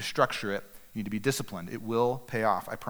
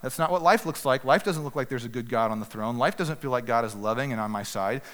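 protesting heart. Retold or imitated. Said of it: "my heart kicking and screaming".

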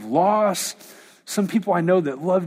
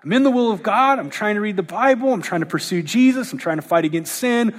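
mock whining shock. Preacher voicing his own confused complaint, mild whine. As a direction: whine like a baffled believer. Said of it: "I'm like".

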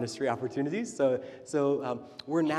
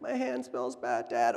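put-on whiny child; 3 semitones lower, slower than usual. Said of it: "Anna's quote".

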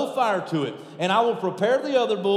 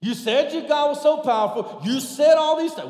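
Elijah taunting; 6 semitones higher than usual. Acted. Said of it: "what Elijah is saying?".

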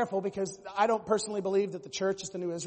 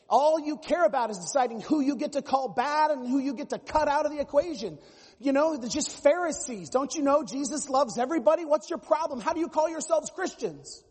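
higher, louder hammed-up scolding; mock indignant progressive; 5 semitones higher, 4 dB louder than usual. Pastor imitating a progressive berating evangelicals, loud mock indignation. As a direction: rant like someone shocked at the Pharisees.

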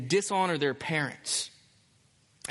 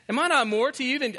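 mock self-important husband; 7 semitones higher, faster than usual. Pastor parrots Elkanah's boast to his wife, higher and mocking. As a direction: lift it up in disbelief at the husband. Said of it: "he says that".

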